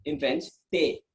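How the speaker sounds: "thé" said like English "tay"; "thé", said in French. Shown as a demonstration. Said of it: "That is".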